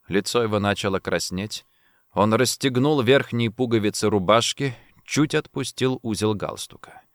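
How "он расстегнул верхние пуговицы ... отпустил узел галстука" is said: ordinary delivery, nothing marked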